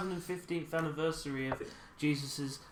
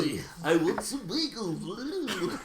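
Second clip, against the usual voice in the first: put-on slow, laughing Jewish accent; hammed-up Jewish accent; 3 semitones higher, much slower than usual. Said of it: "how I gave him a Jewish accent".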